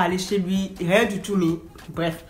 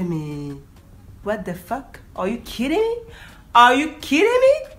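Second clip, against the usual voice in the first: stunned disbelief; 3 semitones higher, slower than usual. Retold or imitated. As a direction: start hushed, then shriek the last one. Reacting to the man.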